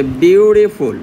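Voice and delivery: বিউটিফুল broken into three distinct syllables. Shown as a demonstration. Teacher counting syllables for students, বিউটিফুল said part by part. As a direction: sound out বিউটিফুল in three beats. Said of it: "এইখানে কয়টা syllable?".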